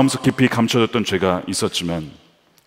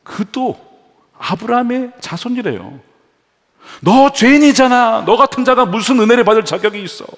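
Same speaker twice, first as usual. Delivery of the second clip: mocking sneer; 11 semitones higher, 6 dB louder than usual. Shown as a demonstration. Wrong way to address the sinner, loud mocking scorn. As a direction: accuse him with contempt. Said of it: "이게 은전을 주시는 방식이에요".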